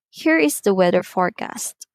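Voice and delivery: statement falling on "forecast"; falling intonation. Shown as a demonstration. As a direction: let the voice drop on "forecast". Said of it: "usually using falling intonation".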